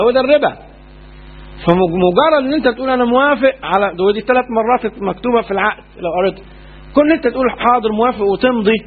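stern warning against signing; rising stern warning. Real, not acted. Warning against usury contract.

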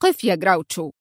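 low, hard stop order; stern command. A narrator's reading. The director ordering Grauchou to stop, sternly. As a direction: halt him with authority. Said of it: "صاح في صرامة".

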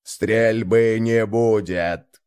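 slow, processed voice over a speaker; distorted speaker voice. Acted. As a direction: sound like a voice through a speaker. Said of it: "искажённый голос в ретрансляторе".

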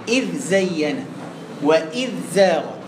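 إذ keeps a distinct dhal before زين and زاغت; clear dhal. Shown as a demonstration. Teacher showing how dhal moves to zay, dhal kept clear. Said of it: "أبين الذال وبسرعة".

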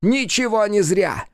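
very high, slow defiant shout; a climactic demon battle cry. A narrator's reading. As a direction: roar it to the void.

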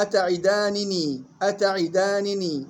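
slow أتعدانني ending "-aanini"; both nuns kasra. Shown as a demonstration. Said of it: "كسر النون الأولى والثانية". (أتعدانني ببطء مع كسر النونين)

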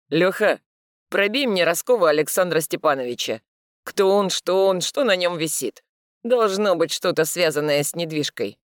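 firm orders into phone; commanding. Acted. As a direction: give it like an order. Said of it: "похожее на приказ".

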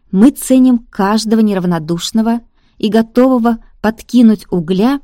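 loud, hollow ghost speech to followers; creaking, rattling spirit addressing a crowd; otherworldly hollow voice. Acted. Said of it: "Потусторонний голос звучал странно и гулко".

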